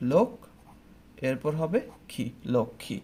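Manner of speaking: লক্ষ্মী said as লোক then খি, the m silent; careful pronunciation. Shown as a demonstration. Teacher to class, demonstrating লক্ষ্মী as lokkhi. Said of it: "উচ্চারণটা কেমন হবে".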